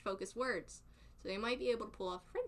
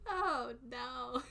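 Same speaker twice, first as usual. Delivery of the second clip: laughing dismay; 2 semitones higher than usual. Real, not acted. End of laughing fit.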